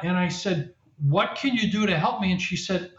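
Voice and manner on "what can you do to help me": mock pleading question. Retold airport counter exchange.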